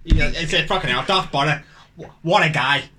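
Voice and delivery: lightly voiced mock Irishman, pitched low; low-pitched, lightly acted admirer; Englishman posing as Irishman. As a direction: drop well down, lightly playing the fake Irishman. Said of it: "An Englishman posing as an Irishman".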